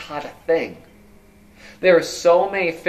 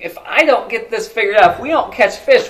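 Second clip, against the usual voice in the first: worried disciples; 5 semitones higher, 6 dB louder than usual. Acted. Disciples' worried thoughts voiced.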